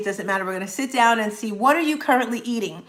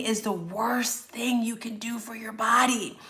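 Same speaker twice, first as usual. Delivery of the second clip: slow whispered warning; whispering; 7 dB quieter than usual. Real, not acted. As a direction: hush it like a secret. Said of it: "dramatic warning".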